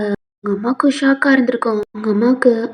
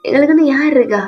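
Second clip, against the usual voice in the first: bitter outcry; 4 semitones higher, 6 dB louder than usual. Acted. Drunk son rants at relatives.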